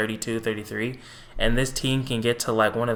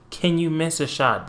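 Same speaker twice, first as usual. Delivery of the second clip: exasperated plea, repeated; 5 semitones higher than usual. Retold or imitated. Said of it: "I'm like".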